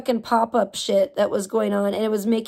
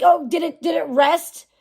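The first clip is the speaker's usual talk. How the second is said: mock-innocent questions pitched higher at the start; a lightly hammed-up mocking voice; sarcastic mock; 3 semitones higher than usual. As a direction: sneer at the idea the tablet healed itself.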